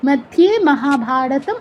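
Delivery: slow recitation of "মধ্যে মহাভারতম", set apart; as a separate unit. Shown as a demonstration. Teacher shows the verse's second part, said separately. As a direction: draw it out as its own phrase. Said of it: "এটা আবার আলাদা করে".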